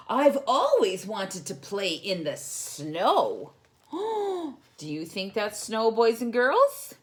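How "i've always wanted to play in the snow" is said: excited. Acted. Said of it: "he said excitedly".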